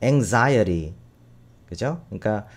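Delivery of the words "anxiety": anxiety with an American flap sound; American pronunciation. Shown as a demonstration. Teacher models American-style anxiety for students, flapped. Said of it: "말하자면 미국식이죠".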